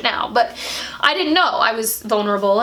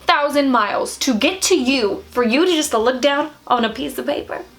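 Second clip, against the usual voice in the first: indignant comeback; 3 semitones higher than usual. Retold or imitated. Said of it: "And I'm like".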